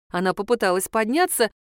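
usual speaking voice

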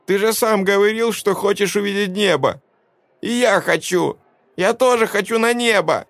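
put-on high excited child voice; boy reminding his father; pleading boy. A narrator's reading. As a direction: insist like a hurt child. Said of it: "всхлипнул мальчик".

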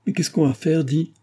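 high, anxious question; desperate asking what to do; panicked plea. A narrator's reading. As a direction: daughter panicking to Marcel.

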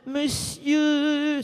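high shouted call upward. Pretend. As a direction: call loudly up to the man above. Appelle le monsieur en haut. (appel crié vers le monsieur en haut)

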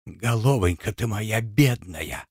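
barely voiced, soft moan of pain; weak lament. Beaten wife lamenting over herself, faint and soft. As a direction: struggle to move the lips, faint. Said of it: "трудно шевеля губами".

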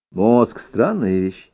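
ordinary delivery

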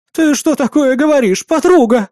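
high, loud shrieking outrage; outraged wife. A narrator's reading. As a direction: turn on the traitor friend. Wife turns on friend. (жена возмущённо кричит на подругу)

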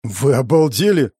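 mildly outraged question; a touch of indignation; indignant. A narrator's reading. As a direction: object in disbelief. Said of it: "возмутился я".

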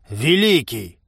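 ordinary delivery

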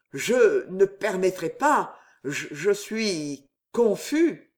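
slow, halting stammer, pale with fright. Acted. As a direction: falter over the words, slowly. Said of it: "balbutia Bernice, devenue blême".

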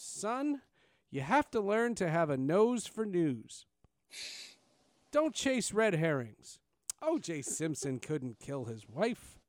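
put-on slow, lecturing older voice; condescending mentor. Older anchor lecturing the young intern, slow and patronizing. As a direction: talk down to the kid, slowly. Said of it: "he called me son".

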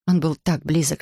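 ordinary delivery, nothing marked

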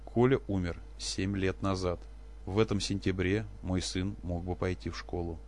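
wife coldly correcting her husband about their son; prickly and hard. Acted. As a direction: cut each word sharp. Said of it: "голос стал колючим и жёстким".

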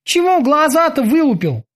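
high yell at the prisoner; shout. Acted. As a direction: bark it high and sharp. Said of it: "крикнул он".

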